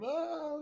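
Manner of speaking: mock movie scream. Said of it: "writhe around in pain and scream".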